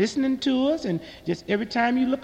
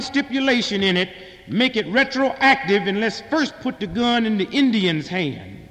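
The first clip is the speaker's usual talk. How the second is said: mock-formal telegram, read out loud; hammed-up official letter, slowing at the punchline; 4 semitones higher, 4 dB louder than usual. Comic reads his telegram to the mayor, mock-formal and slowing. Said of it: "sent him a telegram".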